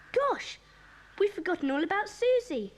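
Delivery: high, startled exclamation; sudden alarm. Acted. Remembering Susie might overhear, suddenly alarmed. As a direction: gasp it out, pitched right up.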